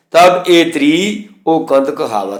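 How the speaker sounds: slowed, with "ਤ੍ਰੀ" held a little long; "ਤ੍ਰੀ" drawn out slightly, the ee lengthened; lengthened vowel. Shown as a demonstration. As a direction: stretch the "ਤ੍ਰੀ" gently as a model reading. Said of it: "ਥੋੜ੍ਹੀ ਜਿਹੀ ਆਵਾਜ਼ ਲੰਬੀ ਹੋ ਜਾਏਗੀ".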